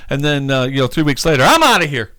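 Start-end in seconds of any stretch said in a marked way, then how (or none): 1.5-2.1 higher, playful sign-off; acted-out jokey departure; mock breezy exit. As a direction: toss it off as a comic quick getaway. Mimics God abruptly leaving after revival.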